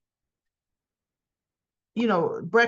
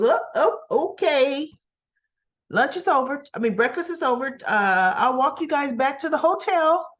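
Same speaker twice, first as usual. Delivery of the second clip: raised-pitch, flustered wrap-up; hurried interruption; 5 semitones higher than usual. Retold or imitated. Daniel ends breakfast to break them up, hurriedly interrupting. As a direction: cut in brightly to end things.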